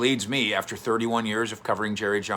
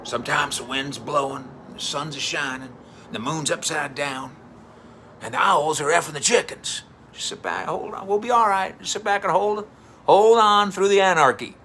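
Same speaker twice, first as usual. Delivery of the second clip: from folksy to loud and high; rally the room, rising to a shout; building Jerry pep talk; 5 semitones higher, 4 dB louder than usual. Retold or imitated. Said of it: "That's why Jerry was saying".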